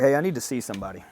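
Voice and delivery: quick, projected walk-in request; casual request. Retold or imitated. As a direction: say it quickly, a straightforward ask. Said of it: "it wasn't a fucking request".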